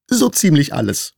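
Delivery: high, squeaky mouse reply; piepsende Maus. A narrator's reading. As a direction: answer in a little mouse's high voice. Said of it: "Die Maus schluckte und piepste schließlich". (hohe, piepsige Mäusestimme)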